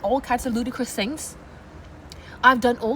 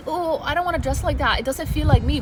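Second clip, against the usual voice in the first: reluctant whine; 3 semitones higher than usual. Retold or imitated. Voices a reluctant objection.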